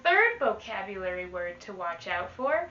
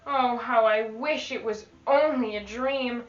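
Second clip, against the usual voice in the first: put-on lively read-aloud to children; teacher reading a rhyming book to the class; storybook reading. Teacher reads picture book aloud.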